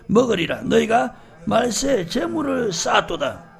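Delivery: forceful scripture reading. Acted. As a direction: read the verse out firmly to the congregation. Scripture read aloud. (힘주어 읽는 성경 말씀)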